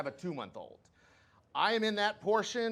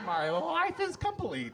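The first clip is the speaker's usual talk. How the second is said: blissful; 11 semitones higher, slower than usual. Pretend. Dying lady's last words.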